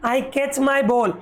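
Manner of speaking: very slow word by word reading; slow, clear teacher reading; slow read-aloud. Shown as a demonstration. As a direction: read each word slowly for the class. Slow model reading for kids.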